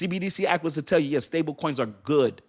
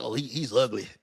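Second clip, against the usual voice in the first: mock friend warning; 7 semitones lower, 5 dB quieter than usual. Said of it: "She was like".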